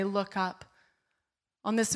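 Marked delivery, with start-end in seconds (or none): 0.0-0.6 hushed, soft "Look up"; soft whisper. Retold or imitated. Preacher recalling God whispering "look up", hushed. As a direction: barely breathe the words. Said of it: "beautiful whisper of the Lord's voice".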